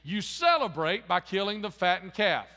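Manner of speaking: jealous son protesting to his father, indignant and loud; resentful older brother. Acted. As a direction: spit out the grievance, slowing on "prostitutes". Older brother's bitter complaint.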